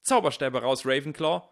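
high, loud rallying cry; shouting. A narrator's reading. Michael Corner feels left out and joins in, shouting. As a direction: yell your house to arms. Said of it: "schrie Michael Corner".

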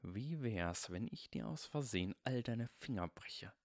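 quiet menacing villain hiss. Acted. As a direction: threaten softly, savouring it. Bully threatens to break fingers.

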